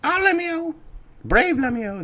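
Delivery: high falsetto parents speaking together; two voices at once. Acted. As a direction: try both parents at once. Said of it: "I can't do two voices at once".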